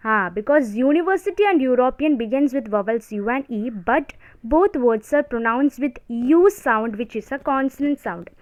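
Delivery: slow, word-by-word dictation for notes. Shown as a demonstration. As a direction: read the rule out slowly so students can write. Dictating grammar rule slowly.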